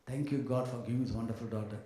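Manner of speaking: a parent quietly thanking God at the altar; understated sincere prayer; thankful prayer. Retold or imitated. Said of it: "stand in the altar and say".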